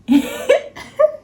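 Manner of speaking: short, high-pitched disbelieving laugh. Real, not acted. Mother reacting to nurses' mistaken note, high laugh. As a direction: let out a thin, high laugh.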